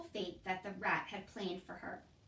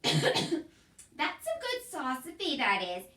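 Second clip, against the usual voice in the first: high, loud, slow approval; Mig's loud agreement; 6 semitones higher, 8 dB louder, slower than usual. A narrator's reading. Mig loudly agrees with Cook's philosophy. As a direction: admire the idea out loud.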